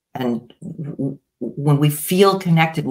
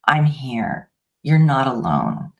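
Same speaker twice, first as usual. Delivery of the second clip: reassuring; 2 semitones lower than usual. Shown as a demonstration.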